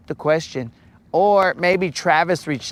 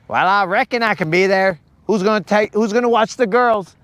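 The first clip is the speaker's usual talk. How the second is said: put-on Southern accent; 5 semitones higher than usual. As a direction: put on a mock Southern twang. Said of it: "has to have that Southern accent".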